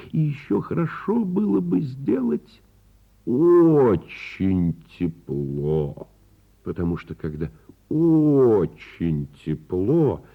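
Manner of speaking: slow, dreamy musing voice, drawn out; a wizard musing, slow and dreamy. Acted. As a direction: daydream aloud like a whimsical wizard.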